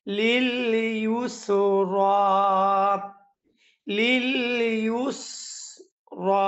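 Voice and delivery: লিল ইউসরা said with a clear ya sound, not waw; correct lil yusra. Shown as a demonstration. Teacher models the correct reading of লিল ইউসরা with a clear y. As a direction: stretch ইউসরা slowly with a clear y. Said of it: "তাহলে কিভাবে হবে".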